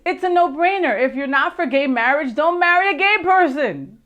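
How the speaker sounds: a hint of a famous comic's punchline voice; a loose, hammed-up celebrity take; Whoopi Goldberg impression. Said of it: "That's Whoopi Goldberg".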